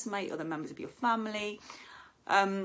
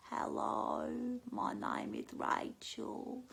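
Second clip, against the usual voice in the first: very slow, softer Australian voice; imitating Rachel, very slow and soft; 5 semitones higher, 6 dB quieter, much slower than usual. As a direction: drag out each word like Rachel. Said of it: "speak really slowly".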